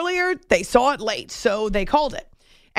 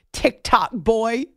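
usual speaking voice

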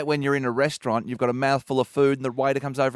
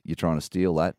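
high mechanical self-checkout voice; stiff, machine-like announcement; robotic checkout voice; 4 semitones higher, 3 dB louder than usual. Retold or imitated. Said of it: "the machine goes".

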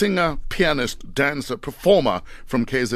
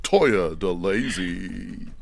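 grand entrance announcement; 2 semitones lower than usual. Acted. Radio host introducing guest star.

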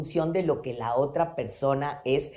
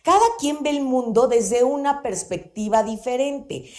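each word weighed, "cada" stressed; slow emphatic statement; 3 semitones higher than usual. Shown as a demonstration. Coach stressing a key phrase to listeners, "cada" weighted. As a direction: press "cada quien" home like a key lesson. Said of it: "y no se les olvide esto".

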